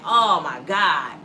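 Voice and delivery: slow drawn-out oh my God; mock panic. Vlogger imitating her own panic, slow mock dread. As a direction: act out a panicked gasp. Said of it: "Now I'm panicking like".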